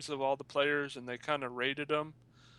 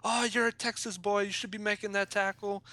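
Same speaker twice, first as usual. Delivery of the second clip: higher, louder mock British accent; 7 semitones higher, 4 dB louder than usual. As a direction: ham up a British commentator's accent. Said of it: "cussing in his British accent".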